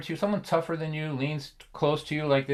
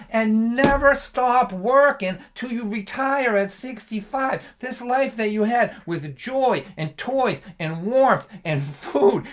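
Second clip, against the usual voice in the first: earnest father; 6 semitones higher than usual. Retold or imitated. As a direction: plead sincerely like a father explaining. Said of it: "he goes".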